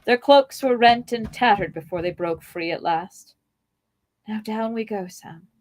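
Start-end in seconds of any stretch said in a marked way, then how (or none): 4.3-5.5 whisper. Acted. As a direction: hush it, danger is near. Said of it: "Frodo whispered".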